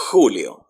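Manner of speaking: Julio with a strong throaty h for the J; "KHOO-lio" for Julio; strong Spanish J. Shown as a demonstration. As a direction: start Julio on a hard "kh" rasp. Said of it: "kind of like the H in English".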